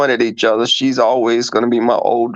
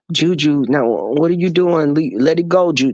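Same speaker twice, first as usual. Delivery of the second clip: soft owner. Retold or imitated. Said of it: "this is him talking to Juju".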